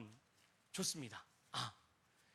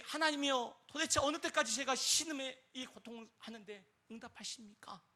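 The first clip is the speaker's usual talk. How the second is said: lamenting cry; 4 semitones higher than usual. Retold or imitated. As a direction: sigh it out to God. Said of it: "라고 탄식하지 않습니까?".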